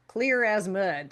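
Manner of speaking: slow drawn-out Oklahoma twang on "Clear as mud"; Oklahoma accent. Retold or imitated. Repeating an Oklahoma saying in an Oklahoma accent. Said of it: "That's why I said it with that accent".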